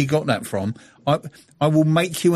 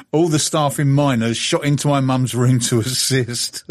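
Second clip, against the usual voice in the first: reading aloud. Acted. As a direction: read the tweet's ending deliberately. Reads out a listener's tweet.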